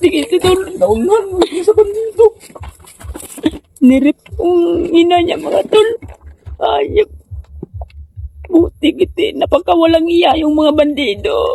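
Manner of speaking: high, sobbing wail, crying through tears.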